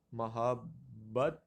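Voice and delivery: محبت slowly as "ma-hab ... bat"; pronunciation option. Shown as a demonstration. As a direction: say محبت drawn apart, a in every syllable. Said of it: "غلط پڑھا جاتا ہے".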